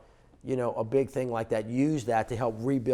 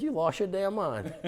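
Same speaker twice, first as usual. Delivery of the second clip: laughing disbelief; 8 semitones higher than usual. Retold or imitated. Stunned reply to friend's request.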